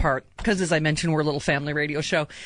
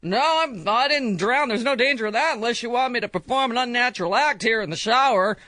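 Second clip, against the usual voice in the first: mock leading man; 5 semitones higher than usual. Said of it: "And then he says".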